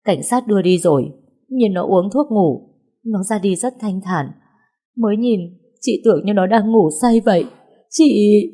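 grieving friend sobbing, then choking off; tearful, breaking down. Acted. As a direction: voice cracks until it cannot go on. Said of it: "Chị Kha không nói được nữa".

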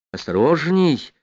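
high, drawn-out word of caution; urgent warning. Acted. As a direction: warn him with a touch of alarm. Татьяна испуганно предостерегает. (протяжное встревоженное предостережение)

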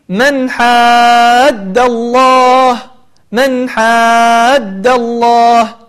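من حاد الله very slow, nun clear before the ha; recited example. Shown as a demonstration. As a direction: chant من حاد الله drawn out.

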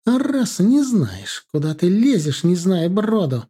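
mother jumping up at her son in anger; heated outburst. A narrator's reading. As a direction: leap up and tear into him. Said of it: "вскочила мать".

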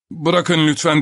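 high, loud alarmed cry; bağırarak. A narrator's reading. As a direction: shout to stop him. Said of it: "diye bağırdı her iki kadın da". (telaşlı bağırış)

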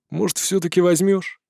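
put-on childlike asking. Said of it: "по-детски попросил зверь сферы".

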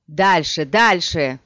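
loud urging, pitch kept level; shouted order. A narrator's reading. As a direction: urge them onward with a contained shout. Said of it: "крикнул он".

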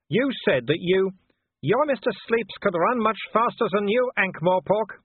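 Wolfgang. Acted. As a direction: sneer at the cornered man from below. Wolfgang's voice held.

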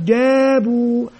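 جابوا drawn out slowly syllable by syllable; slow blending demo. Shown as a demonstration. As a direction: stretch جابوا slowly like a teacher. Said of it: "واو مد طبيعي حركتان". (نطق جابوا ببطء ومد)

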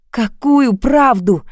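slow, weary asking, drawn out; weary question. A narrator's reading. Lili asks Sergei wearily, slow and tired. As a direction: ask it slowly, worn out. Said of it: "устало спросила я".

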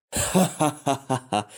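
hearty happy laughter; joyful laugh. A narrator's reading. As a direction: laugh out with relief. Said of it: "радостно засмеялся".

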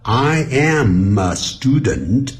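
linked "I amma student", accelerating; gradually speeding up. Shown as a demonstration. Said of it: "慢慢慢慢的越来越快".

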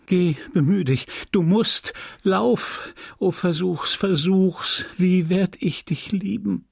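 urgent pleading. Acted. Emma begging Leon to find the money, urgent high plea. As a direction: push him out the door with every word.

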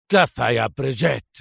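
angry shout. A narrator's reading. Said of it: "صرخ مارسيل في غضب".

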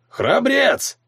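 high mocking cry. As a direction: toss it off with a smirk. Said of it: "усмехнулся Вокра".

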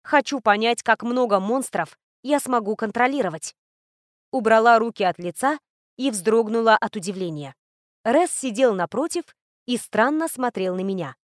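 plain reading voice

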